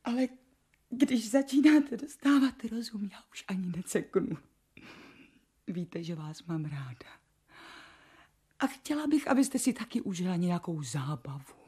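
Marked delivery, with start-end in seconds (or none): 0.0-7.2 apologetic whisper. Acted. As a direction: hush it meekly to her mistress.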